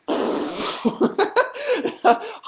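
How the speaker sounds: high wordless splutter breaking into laughter; splutter, lost for words, then laugh; imitated dumbstruck noise. Retelling his reaction to friends, high stunned splutter. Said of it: "I was just like".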